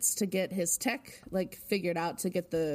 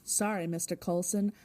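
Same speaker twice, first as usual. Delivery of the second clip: a hint of mock Southern twang; Southern-ish accent; 3 semitones lower than usual. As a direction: put on a mild Southern accent. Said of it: "a classic Southern-ish".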